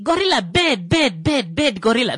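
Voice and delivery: high-pitched mock scolding; mock a dainty man telling off an animal; handbag-carrying man. Man with a handbag scolding a gorilla, high mocking voice. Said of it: "someone that will show up with a handbag".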